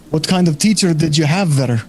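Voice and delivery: put-on the bar patron redone without the Scottish accent; corrected patron accent. Game master redoing the patron's question, Scottish accent dropped. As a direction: drop the Scottish lilt and retake the patron's line. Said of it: "Oh, wrong accent".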